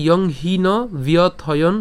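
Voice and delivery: slow, measured Sanskrit shloka; deliberate teaching recitation; full verse recitation. Shown as a demonstration. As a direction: recite the whole verse in drawn-out, separated phrases. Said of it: "প্রথম থেকে যদি বলি".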